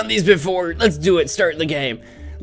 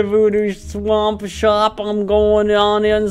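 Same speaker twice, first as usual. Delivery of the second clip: grand announcer; 4 semitones higher, much slower than usual. Acted. Announcing entering the shop.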